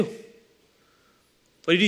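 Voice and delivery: slowed, hushed echo of the question. Shown as a demonstration. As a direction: let the question hang, slow and hushed. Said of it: "And so what do you do?".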